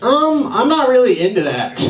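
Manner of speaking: high, hesitant put-on voice of the hookup guy; squeaky awkward letdown. Comic retells his hookup's refusal, awkward high voice. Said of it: "And he was like".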